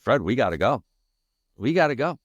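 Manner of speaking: rising urgent plea to get out; pressing a friend to flee, pitch climbing. Retold or imitated. Urging his friend to flee the fire, rising urgency.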